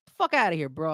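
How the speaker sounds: real anger at the team, pushing through; upset rant. Real, not acted. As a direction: vent the frustration for real. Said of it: "I'm sorry I'm getting upset".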